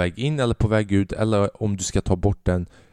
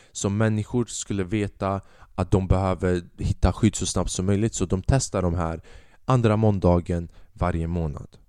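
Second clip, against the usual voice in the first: dentist explaining; 3 semitones lower than usual. Retold or imitated. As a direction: drone through it like a bored dentist. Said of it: "läkaren berättar till mig".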